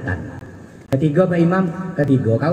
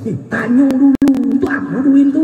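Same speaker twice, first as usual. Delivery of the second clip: suspicious youth; 9 semitones higher than usual. Acted. Youth questions the man.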